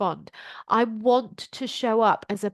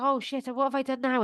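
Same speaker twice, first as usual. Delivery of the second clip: panicked; 2 semitones higher, faster than usual. Retold or imitated. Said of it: "If I reacted from nervous".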